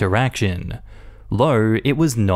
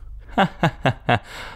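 breathy laugh; 4 semitones higher, 4 dB quieter than usual. Real, not acted. Laugh after the story.

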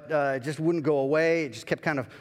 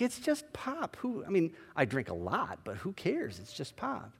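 dismissive; 3 semitones higher, 6 dB quieter than usual. Retold or imitated. Pastor brushing off God.

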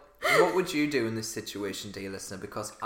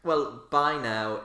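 mock posh sign-off; 3 dB louder, much slower than usual. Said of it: "God, here now".

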